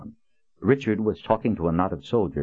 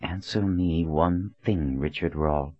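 hissing through teeth. Acted. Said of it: "she hissed through gritted teeth".

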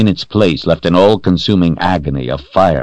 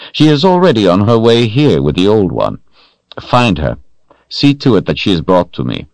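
imperious master giving orders, louder and higher; Rahl commanding; 5 semitones higher, 3 dB louder than usual. Acted. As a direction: speak down to a servant, cold authority.

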